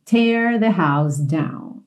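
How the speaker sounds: "Tear" with an open "é" vowel, stretched. Shown as a demonstration. Teacher showing the verb's sound, "Tear" with open E. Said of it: "Como se fosse um acento agudo no E".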